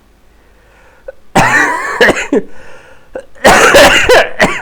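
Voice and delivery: hacking cough rising into strain; real sick cough; long coughing fit. Real, not acted. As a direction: cough until it hurts.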